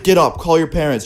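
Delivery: dad kicking the boys out, retold shout; angry dad order. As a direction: order them out like a fed-up dad. Angry dad wakes them up.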